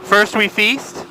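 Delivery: slowed down, spelled out; slow, clear repeat. Real, not acted. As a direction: repeat it slowly for clarity. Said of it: "What is it?".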